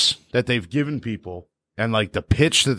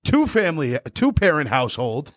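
mock rant; 4 semitones higher than usual. Ranting at pop punk fans.

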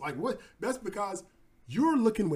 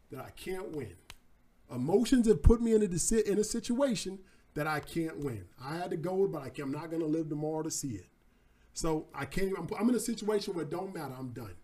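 defeated; 5 semitones lower than usual. Acted. Midas realizes he will die.

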